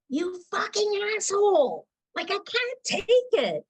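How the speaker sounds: high retold yell at full pitch. Mother reliving yelling at her husband, high retold yell. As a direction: shriek it high, at the end of your rope. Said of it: "at the loudest of voice".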